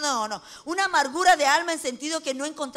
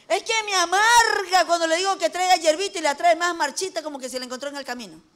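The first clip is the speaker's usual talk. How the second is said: lloriqueo de queja; 4 semitones higher, 4 dB louder than usual. Retold or imitated. Women complain with bitterness.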